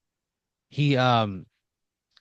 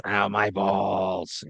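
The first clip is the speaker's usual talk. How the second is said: mild mock scream; much slower than usual. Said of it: "He just screams".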